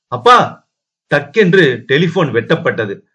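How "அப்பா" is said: high, rising call; sudden pitched-up alarm; alarmed cry. Acted. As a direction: cry out for your father. Daughter cries out as line cuts.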